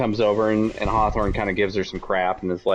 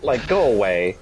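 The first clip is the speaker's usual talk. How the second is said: annoyed; 5 semitones higher than usual. Retold or imitated. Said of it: "Ada's just kinda getting annoyed with her".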